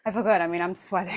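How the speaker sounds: breathless after the workout; out of breath. Real, not acted. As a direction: speak while still catching your breath. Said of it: "I'm out of breath".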